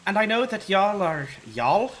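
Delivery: a slip into an Irish accent on y'all. Real, not acted. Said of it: "in an Irish accent".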